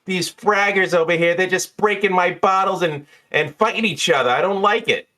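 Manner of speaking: high, fussy complaining voice; fussy bartender. Acted. Jeannie complaining to Dukes about the bottle breakers, high and fussy. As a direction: grumble about the rowdy fraggers.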